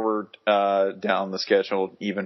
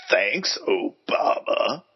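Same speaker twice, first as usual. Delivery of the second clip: political ad voice; much slower than usual. Shown as a demonstration. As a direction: intone it like a campaign ad. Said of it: "political ad voice ever".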